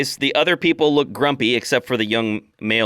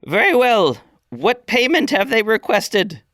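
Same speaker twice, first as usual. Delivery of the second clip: put-on old orc elder; 11 semitones higher than usual. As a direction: weigh the answer carefully. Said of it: "the old woman".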